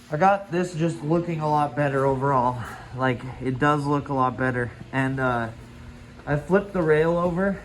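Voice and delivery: talking through a dust mask; muffled voice behind a mask. Real, not acted. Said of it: "Sorry if it sounds muffled".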